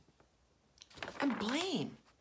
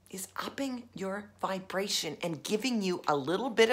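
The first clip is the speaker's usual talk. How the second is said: whisper; 6 dB quieter than usual. Shown as a demonstration. Aside about revenge.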